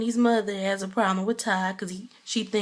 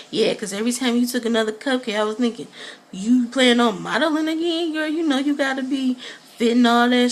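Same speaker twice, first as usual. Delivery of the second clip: mocking Peter; 4 semitones higher, 4 dB louder than usual. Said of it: "He over here".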